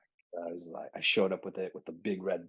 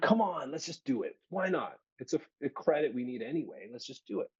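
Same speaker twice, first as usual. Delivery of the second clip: higher, insistent coaxing; pushy eager friend; 6 semitones higher than usual. Retold or imitated. College friend pushing him into theater, insistent. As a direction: keep nudging him, pitched up.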